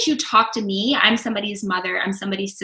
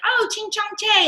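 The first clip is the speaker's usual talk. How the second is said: mocking racist taunt; 11 semitones higher than usual. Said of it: "going like".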